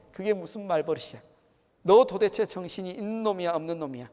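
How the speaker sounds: acted angry telling-off, loud bursts; parent scolding. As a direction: scold a back-talking child. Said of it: "이렇게 야단을 치죠".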